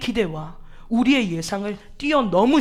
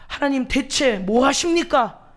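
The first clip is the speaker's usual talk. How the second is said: drawn-out complaint; 3 semitones higher, slower than usual. Retold or imitated. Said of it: "반문합니다".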